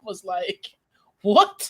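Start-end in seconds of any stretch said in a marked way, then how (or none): 1.2-1.7 high, startled what; mock disbelief, high-pitched; thrown off. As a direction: re-enact being baffled, pitched way up. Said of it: "it just threw me off".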